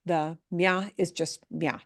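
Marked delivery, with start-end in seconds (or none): 0.5-0.9 "mia" as a quick myah; "mia" with no beat on the i; one-syllable mia. Shown as a demonstration. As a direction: glide "mia" into a single syllable. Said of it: "all one syllable".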